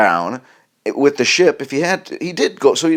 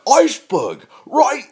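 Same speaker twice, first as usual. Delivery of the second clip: flat declaration; 14 semitones higher, slower than usual. Retold or imitated. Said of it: "he says it like that".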